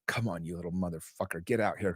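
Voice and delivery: low, quiet retold cursing; muttered swearing. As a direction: swear under your breath, coaxing it out. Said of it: "I'm just swearing".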